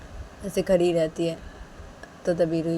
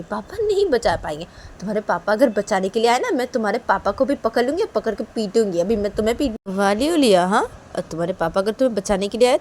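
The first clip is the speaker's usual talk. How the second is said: a touch of a loud, menacing mother; threatening mother; 2 semitones higher, 4 dB louder than usual. Acted. Mother threatening to beat Liya and her papa. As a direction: scold and threaten the child.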